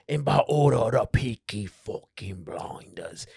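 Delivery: menacing Brummie gang voice; Birmingham gangster accent. Retold or imitated. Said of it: "It's like".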